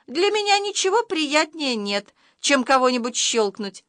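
high cartoonish voice; high-pitched storybook creature; talking camera. A narrator's reading. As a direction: savour it as a little talking camera. Camera relishes clicking someone.

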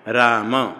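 राम said as two syllables, raa-ma; final vowel sounded. Shown as a demonstration. Teacher models Sanskrit for students, राम with final अ voiced. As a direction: sound the short closed अ after म in राम. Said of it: "राम नहीं".

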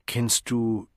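studied casual question, slowed down; exaggeratedly indifferent. Lenina asks her friend about Sigmund, feigning indifference. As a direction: toss it off as if it hardly mattered. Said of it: "in übertrieben gleichgültigem Ton".

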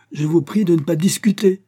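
high, loud official order; indignant shouted command; shouting with full force. A narrator's reading. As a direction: shout down the argument. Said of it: "s'écria Evstrad Spiridonitch de toutes ses forces".

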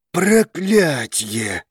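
very slow, beaten curse; defeated. A narrator's reading. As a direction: let it out in defeat. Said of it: "пораженчески произнёс Драгос".

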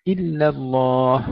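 slow إلا الله, thin ل then dark ل in الله; light then heavy lam. Shown as a demonstration. Tajweed teacher modelling for students, slow contrast in إلا الله. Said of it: "ترقيق اللام في كلمة إلا".

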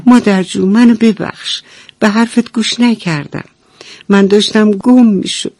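hugging mother, apologising; relieved duckling. Acted. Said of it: "با خوشحالی مامانش رو بغل کرد".

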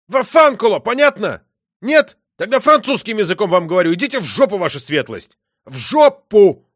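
high, loud, furious yelling; furious rant. Acted. Michel yells at the marquis and his wife, furious rant. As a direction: scream it at them, patience gone. Outburst after patience snaps.

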